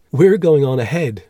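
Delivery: high, loud cheerful call. A narrator's reading. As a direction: call gaily ahead to companions. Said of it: "she called".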